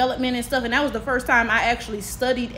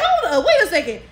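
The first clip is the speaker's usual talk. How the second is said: higher, laughing retold realization; amused double take; 5 semitones higher, 4 dB louder than usual. Student hearing herself say the sentence aloud, startled and amused. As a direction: catch yourself mid-rant with a laugh.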